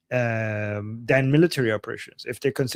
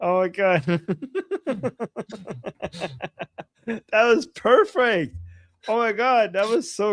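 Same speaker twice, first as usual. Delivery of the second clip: delighted praise; 8 semitones higher than usual. Real, not acted. Praising her co-host's Scottish impression, delighted. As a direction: savour every word of the praise.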